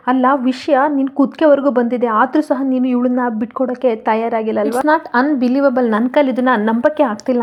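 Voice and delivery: mild mock yelling; lightly voiced angry outburst; shouting. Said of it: "ಕಿರ್ತಾಡ್ತಾ". (ಸ್ವಲ್ಪ ಕಿರುಚಾಟ)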